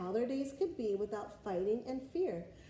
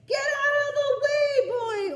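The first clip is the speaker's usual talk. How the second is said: king ordering; 12 dB louder than usual. Acted. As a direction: order the boy aside like a king. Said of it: "ordered the king".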